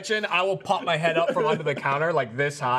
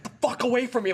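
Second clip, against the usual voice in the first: higher-pitched imitation of annoyance; mock annoyance; 7 semitones higher than usual. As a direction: imitate someone irritably shooing a pest away. Acted annoyed reaction on phone.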